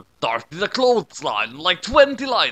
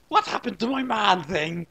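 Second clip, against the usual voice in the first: screaming; 5 semitones higher than usual. A narrator's reading. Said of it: "screamed Creepy Chick".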